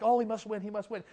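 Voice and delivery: wistful half-hearted hope in he must win; timid hopeful must, not a declaration; mock hoping. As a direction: say he must win like a wish you doubt. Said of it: "Must is not like hoping".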